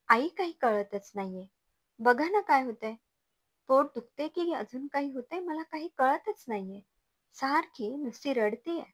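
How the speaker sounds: put-on a new mother who can't stop her crying baby, panicky; panicky pleading. New mother begging mother-in-law for help, panicky and rising. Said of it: "तू panic होऊ नकोस".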